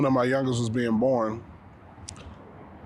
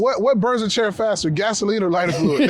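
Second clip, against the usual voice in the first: excited YouTuber parody; 7 semitones higher, 4 dB louder than usual. Retold or imitated. Parodying YouTube video titles.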